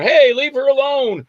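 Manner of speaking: indignant protest. Retold or imitated. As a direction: call out like an outraged bystander. Voices mourners calling out in protest.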